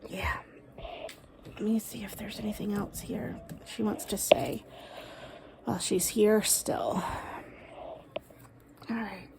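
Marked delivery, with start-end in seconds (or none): 1.5-9.3 soft unvoiced whisper to herself; hushed whisper mid-reading. Real, not acted. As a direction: whisper while listening inward. Listening for the spirit, hushed.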